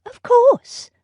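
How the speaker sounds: of course, said with spirit; young lady insisting to the butler, high and emphatic; emphatic Jane. Acted. Jane replies brightly.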